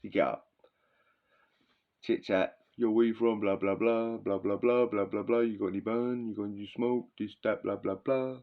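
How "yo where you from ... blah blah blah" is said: put-on London street accent. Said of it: "Everyone talks with that accent".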